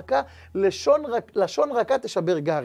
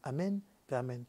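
quiet closing blessing; 4 semitones lower, 6 dB quieter than usual. Acted.

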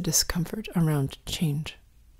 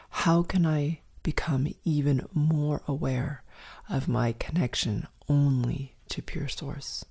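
slow question; slower than usual. Shown as a demonstration. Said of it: "Let's ask ourselves the following question".

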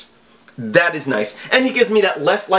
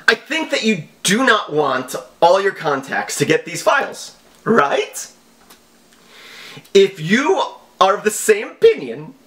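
mock scammer voice; 5 semitones higher than usual. Reading scam email in mock voice.

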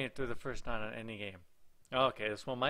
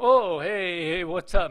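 loud, higher startled hello; surprised greeting; 5 semitones higher, 12 dB louder, slower than usual. Real, not acted. Player to game character found in the bathroom, surprised.

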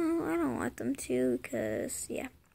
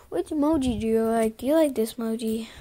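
excited; 7 dB louder, faster than usual. Pretend. Playful host questions.

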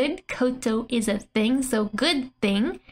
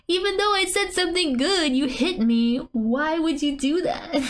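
mock protest; 5 semitones higher than usual. Translating the hurt girl's protest.

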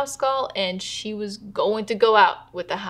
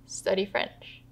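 "Study French" repeated softly at usual pitch; quiet echo; 8 dB quieter, slower than usual. Retold or imitated. Daughter repeats her dying mother's plan, quiet aside. Narrator echoes mother's surprising answer.

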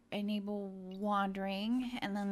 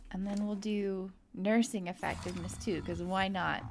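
ordinary talk

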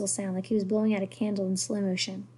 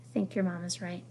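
soft, slightly lowered voice; quiet; 3 semitones lower, 7 dB quieter than usual. A narrator's reading. Mother touching her husband's arm, quiet. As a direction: say it gently under the usual volume. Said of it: "she said quietly".

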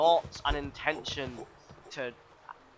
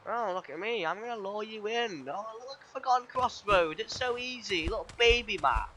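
mocking the game; 5 semitones higher than usual. Streamer voicing the game taunting him, mock sing-song. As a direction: tease like a smug game luring you in.

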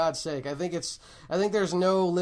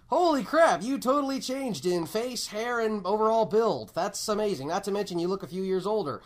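mock excited; 2 semitones higher than usual. Mock congratulation of recast actor.

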